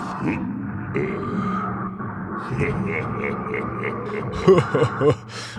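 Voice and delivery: low mock laugh of an undersea giant; imitated laugh. Reactor copying Nautilus's laugh for viewers, low mock laugh. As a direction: imitate a deep, slow game-character laugh. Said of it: "That's what it sounds like".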